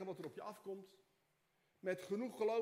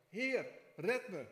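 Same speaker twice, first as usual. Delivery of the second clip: sinking cry for help; 6 dB louder, slower than usual. Acted. Peter sinking in the water, louder desperate plea. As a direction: cry out as if going under. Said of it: "schreeuwde het uit".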